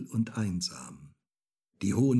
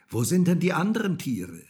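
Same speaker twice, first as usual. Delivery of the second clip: put-on high, loud child's question; calling up; 8 semitones higher, 7 dB louder than usual. A narrator's reading. Häwelmann asks the cat about animals, calling up. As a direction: call it up to the branches. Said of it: "rief der kleine Häwelmann hinauf".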